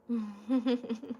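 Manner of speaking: a little self-conscious laugh. Real, not acted. Laughs while thinking.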